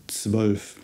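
"Zwölf" with a tsv start and an ö like the vowel in "bird"; German Zwölf. Shown as a demonstration. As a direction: round the lips on the ö in "Zwölf". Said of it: "gives us the Ö sound".

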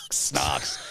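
whispered. Real, not acted. Whispered joke word.

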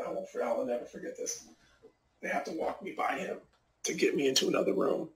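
ordinary talk, nothing marked

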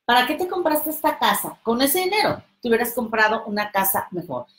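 envious critic. Retold or imitated. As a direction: belittle their purchase. Imita al envidioso. (crítica envidiosa, aguda y rápida)

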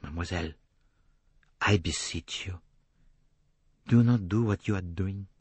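put-on measured, accented entreaty; beseeching Poirot. A narrator's reading. Poirot beseeching Jacqueline to stop, earnest and restrained. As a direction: plead gravely, with restraint.

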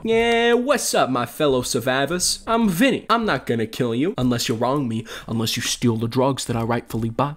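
lightly put-on Italian mobster accent; Italian mob accent. Vinny greets fellow survivors in light Italian mob accent. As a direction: swagger like a small-time Italian mob guy. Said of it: "Now I gotta speak in this accent".

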